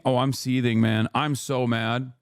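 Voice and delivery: deadpan fake seething, slowing at the end; dry, amused claim of rage; sarcastic mock anger. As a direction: act mad with none in the voice. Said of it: "Keep seething".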